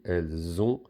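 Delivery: "Elles ont" run together through a z; liaison sounded. Shown as a demonstration. Teacher repeating the example for pupils, "Elles ont" with z liaison. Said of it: "on fait la liaison".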